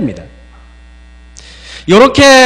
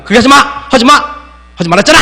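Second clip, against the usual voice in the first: curt scolding; 5 semitones higher, much faster than usual. Retold or imitated. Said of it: "이렇게 말하는".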